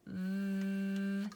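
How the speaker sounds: V held long, top teeth on lip, voice buzzing; voiced V. Shown as a demonstration. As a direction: stretch the V with voice on. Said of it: "Try it with me".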